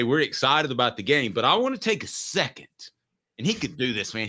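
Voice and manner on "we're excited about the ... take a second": imagined coach statement. Pretend. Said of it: "should he go to the press conference today and say".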